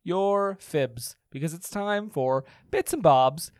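slow, booming ringmaster intro; grand entrance announcement. Pretend. Segment introduction.

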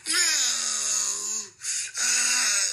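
high, drawn-out fake cry; mock crying wail. Mocking the homie crying for his dead friend, high mock howl. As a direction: ham up a grieving howl, high. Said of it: "blood, you sound like a nigga mama".

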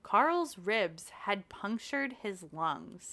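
slow, grave storyteller voice; slow ominous reading. A narrator's reading. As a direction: read it slowly for suspense. Reading a grim mystery quote.

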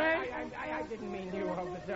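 stammering. Acted. Stammering apology to officer.

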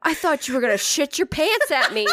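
laughing explanation. Retold or imitated. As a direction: laugh as you explain yourself.

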